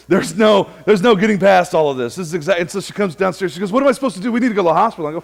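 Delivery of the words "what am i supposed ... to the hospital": higher, half-hammed wife in a fluster; wife urging a hospital trip, mock worried; mock alarm. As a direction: play the fretful wife lightly. Wife panicking, retold.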